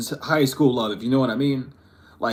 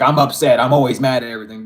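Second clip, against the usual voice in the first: mock upset; 5 dB louder, faster than usual. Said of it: "you would get mad".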